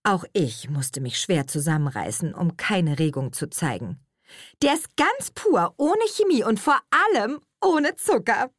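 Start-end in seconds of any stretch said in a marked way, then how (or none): 4.6-8.5 put-on high, bright-eyed young woman explaining; eager higher voice for Nele; Nele's voice. A narrator's reading. Nele lecturing the friends about sugar, high and eager.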